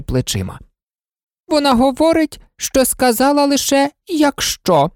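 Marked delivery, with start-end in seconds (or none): 1.5-4.9 high, sneering queen voice; mocking queen. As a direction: repeat her words with scorn. Red Queen mocking Alice's words.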